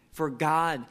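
GOD set apart with weight and a falling tune; stress on God. Shown as a demonstration. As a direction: lean on the word God, then stop. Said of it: "you're kind of emphasizing each word".

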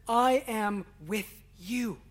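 "I am with you" drawn out slowly, no word singled out; unhurried, reverent reading of "I am with you"; slow solemn quote. Shown as a demonstration. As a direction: speak it slowly and gravely. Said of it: "In the Greek, the I is emphatic".

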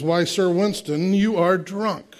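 lightly put-on British accent, slow and disapproving; hammed-up British accent, drawn-out judgmental tone. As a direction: scold slowly in a mock British accent. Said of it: "That was my British accent".

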